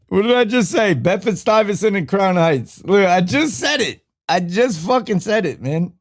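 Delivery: fed up repeating himself to chat; exasperated. Real, not acted. To chat who missed it, exasperated.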